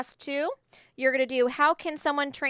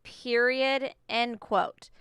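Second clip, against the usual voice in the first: dictating; slower than usual. Shown as a demonstration. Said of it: "I'm doing exact evidence".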